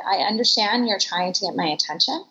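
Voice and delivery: retold calm, measured confrontation. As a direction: recount it composed, without raising your voice. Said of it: "remained very calm".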